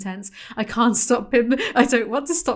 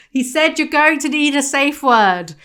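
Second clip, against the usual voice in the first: louder, higher repeat with stress on going; incredulous repeat; 6 semitones higher, 6 dB louder than usual. Retold or imitated. Host repeating the safe-word line to a stunned co-host, loud disbelief. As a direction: spell it out in mock disbelief, leaning on "going".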